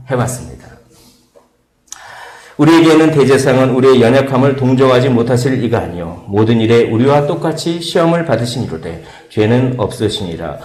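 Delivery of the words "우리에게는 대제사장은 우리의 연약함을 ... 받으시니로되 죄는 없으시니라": loud solemn reading; scripture reading. Acted. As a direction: proclaim the verse. Reads scripture aloud.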